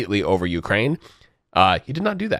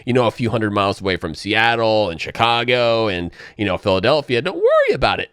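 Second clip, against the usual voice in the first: mock innocent Canada. Canada brushing off Chinese missiles, mock reassuring. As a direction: play innocent, a touch too sweet. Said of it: "if Canada's like".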